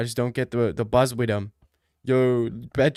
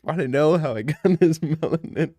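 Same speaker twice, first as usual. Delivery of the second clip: laughing through the line. Acted. Laughing through Joker quote.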